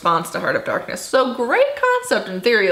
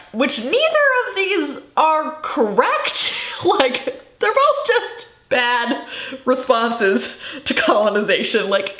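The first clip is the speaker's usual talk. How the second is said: exasperated and higher, slow; 8 semitones higher than usual. Real, not acted. Telling viewers both books fail, higher and exasperated. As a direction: plead for something better. Frustrated verdict.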